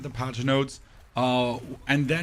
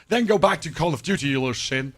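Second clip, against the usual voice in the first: mock angry chat reply; 3 semitones higher, 4 dB louder than usual. Chat firing back at a streamer criticizing their game, mock outraged. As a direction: throw the viewer a mock-outraged retort. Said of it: "The only response you get from your chat is".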